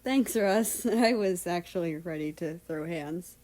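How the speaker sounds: grinning, chuckling reply; laughing thanks. Acted. America laughs his thanks to Russia. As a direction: thank him through a laugh.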